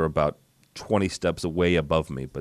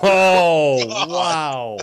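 laughing oh wow, pitched up; 10 semitones higher, 7 dB louder than usual. Real, not acted. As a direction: laugh through the words. Laughing at joke on old faculty.

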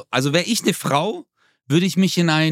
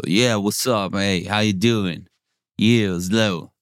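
lower, slow, laid-back American English accent; 5 semitones lower, slower than usual. Shown as a demonstration. Showing a friend American English, in a lower, slow, laid-back American English accent. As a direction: drawl it out like a relaxed American guy. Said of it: "ich mag das American English so".

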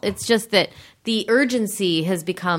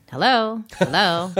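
1930s voice; slower than usual. Retold or imitated. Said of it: "She does it in that nineteen thirties voice".

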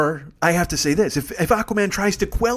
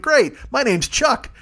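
higher, slow laid-back dude; dopey dude voice; 8 semitones higher, much slower than usual. Pretend. Reef dude greeting the undersea queen, slow and goofy. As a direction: stretch it out like a slow surfer guy.

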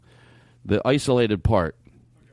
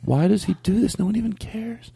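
sister-in-law voice; 8 semitones higher than usual. Retold or imitated. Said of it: "my sister-in-law's going".

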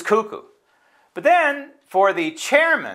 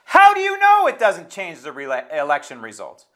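indignant challenge; 3 dB louder than usual. Real, not acted. Angry retort to dismissed election errors.

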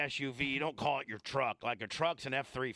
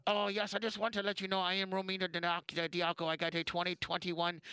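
mock wife calling OnStar; 3 semitones higher than usual. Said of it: "Hello, Chevy OnStar".

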